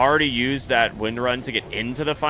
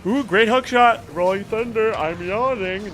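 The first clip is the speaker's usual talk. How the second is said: excited; 9 semitones higher, 4 dB louder than usual. Real, not acted. Caster reacts to big play.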